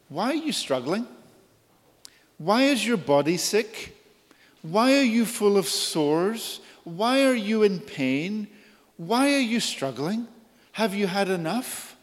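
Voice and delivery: God pleading. Retold or imitated. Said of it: "he goes on and he says".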